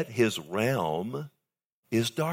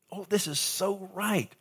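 mock seductive voice; 9 semitones higher, 3 dB quieter than usual. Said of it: "He makes it look".

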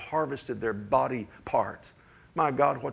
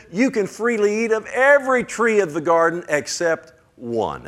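much louder and higher; proclaiming; 8 semitones higher, 9 dB louder than usual. Acted. Preacher proclaiming God's actual words, loud and high. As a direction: declare it triumphantly.

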